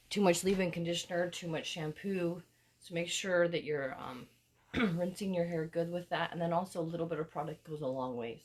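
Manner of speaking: hoarse from a cold; raspy sick voice. Real, not acted. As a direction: talk through a raspy throat. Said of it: "I'm coming in with my raspy, sick voice".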